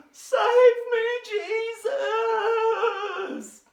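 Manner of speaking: high, loud acted cry for help. Peter sinking in the waves calls to Jesus, loud high cry. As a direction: shout it like a sinking man calling for rescue. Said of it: "and he cries out".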